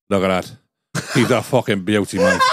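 imitating a Dubliner, lightly accented; bad Irish accent. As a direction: put on a dodgy Irish accent. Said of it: "That is the worst Irish accent".

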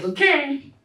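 half-laughing, half-horrified at putting her name on it; laughing inner aside. Retold or imitated. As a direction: chuckle through the private thought. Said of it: "That's what I said in my head".

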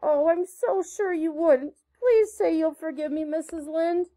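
put-on high, impassioned pleading of a penitent girl; beseeching apology. A narrator's reading. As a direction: beg forgiveness with theatrical remorse. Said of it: "held out her hands beseechingly".

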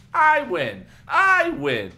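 high, loud bratty boast; gleeful gloating. A narrator's reading. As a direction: crow it like a kid brother.

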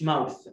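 "ماوث" said like "mouse"; wrong pronunciation. Shown as a demonstration. Teacher reminding pupils of the mistake, "ماوث" with a final s. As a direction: put an s at the end of "ماوث". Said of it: "ما تقوليش ماوث".

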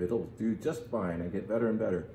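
muffled, into a wine glass; talking into a glass. Real, not acted. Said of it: "As I talk into my glass".

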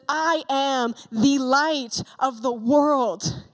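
slow, weighty proclamation, every word set apart; bold powerful declaration. Retold or imitated. Preacher voicing Jesus' bold claim to the temple crowd, slow and weighty. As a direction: declare it boldly and slowly, like a revelation. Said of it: "very bold and powerful statement".

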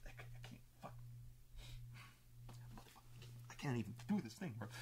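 seething, whispered muttering to himself; furious muttering. Retold or imitated. Lord pacing the wall muttering to himself, whispered fury. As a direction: swallow the rage, hiss it half-voiced. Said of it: "so fucking mad he can't".

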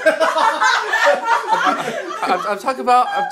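talking through laughter; laughing. Real, not acted. Laughing while correcting dad.

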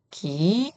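기 with a soft, lax g, rising; plain lax 기. Shown as a demonstration. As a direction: say 기 with a relaxed onset. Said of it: "이렇게 읽으시고요". (예사소리 ㄱ으로 부드럽게 기)

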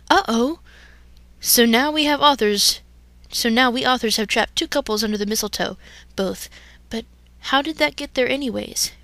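villain dismay. Acted.

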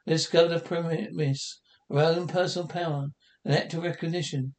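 measured, grave narrator voice; closing narration. A narrator's reading. Narrator sums up Louise's story for the audience, grave and measured. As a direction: close the tale like a TV narrator.

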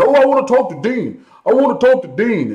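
high, loud whiny-caller imitation; mock demanding customer. CEO mimicking customers who demand him, mock insistence.

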